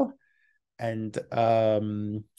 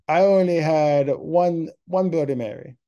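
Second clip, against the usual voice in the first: put-on drunk voice; 6 semitones higher, 6 dB louder than usual. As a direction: drag out the words like you've had a few. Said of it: "you know, drunk voice".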